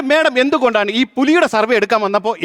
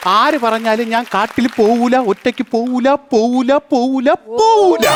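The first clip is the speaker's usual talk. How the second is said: defiant refusal; slower than usual. Acted. Guard refusing to enter the forest alone, defiant. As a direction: dig in, each repeat rising to a peak.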